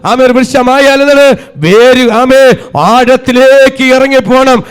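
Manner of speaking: forceful, sustained pulpit delivery; impassioned sermon swelling to stretched-out peaks; full-force preaching. Real, not acted. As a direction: drive each phrase home to the congregation.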